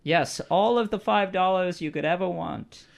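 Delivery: high, grand put-on voice; quest-giving character. Quest giver promising five dollars, high character voice.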